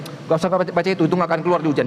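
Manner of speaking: fast, insistent tip; quick eager exam tip; eager friendly advice. Acted. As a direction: rush to convince a friend. Friend advising what to skip.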